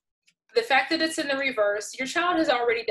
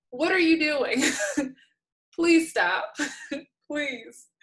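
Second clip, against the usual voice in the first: exasperated; 4 semitones higher, slower than usual. Real, not acted. Exasperated plea to parents.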